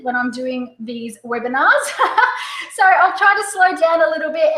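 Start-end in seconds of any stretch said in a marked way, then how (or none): 2.0-4.6 laughing. Real, not acted. Laughing at own fast talking.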